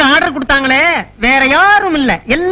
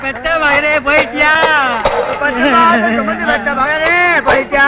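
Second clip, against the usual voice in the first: mock wailing. Fake mourners wailing for money.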